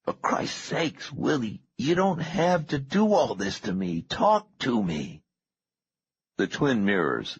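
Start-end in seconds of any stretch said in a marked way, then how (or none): 0.0-5.2 strained, high-pitched pleading; croaked plea. A narrator's reading. Bound captive begging Willie to talk, croaked plea. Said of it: "croaked Herod".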